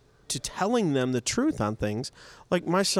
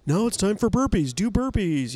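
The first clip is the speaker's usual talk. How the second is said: fitness instructor; 7 semitones higher than usual. Retold or imitated. Mirror trainer voice mocked.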